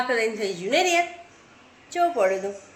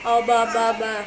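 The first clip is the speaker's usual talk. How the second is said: put-on baby babble; slower than usual.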